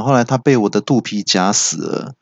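boasting with a chuckle, rising at the end; smug laughing boast. Retold or imitated. Manager boasts to staff with a smug chuckle. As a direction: gloat lightly about the squashed fly. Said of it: "经理就说".

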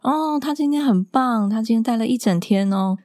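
sing-song praise from a kindergarten teacher; imitating the teacher. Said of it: "老师就跟我说".

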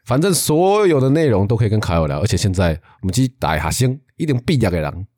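Taiwanese accent. Shown as a demonstration. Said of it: "为什么讲台语就有台湾国语".

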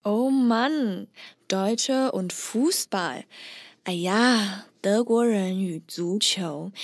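exasperated, with a faint eye-roll, slowly; mildly fed-up teasing tone; slight eye-roll. Shown as a demonstration. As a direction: sigh it out like you're rolling your eyes. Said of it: "要有个态度，微微翻白眼的态度".

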